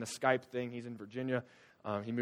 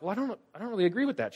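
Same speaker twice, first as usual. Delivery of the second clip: retold disagreement; 8 semitones higher, faster than usual. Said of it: "and I'm like".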